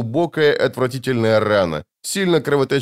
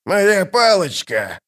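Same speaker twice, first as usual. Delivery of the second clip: high, drawn-out shout; slow high-pitched wail; crying out; 8 semitones higher, slower than usual. A narrator's reading. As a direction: cry in panic for a lost thing. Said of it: "крикнул Доррогарай".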